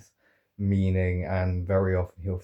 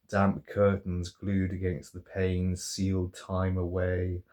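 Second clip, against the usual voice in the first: poetry reading. Real, not acted. Reciting a favourite poet's In Memory of Jane Fraser, measured poetry reading. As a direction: recite it evenly, letting each line settle. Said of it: "do the poetry reading now".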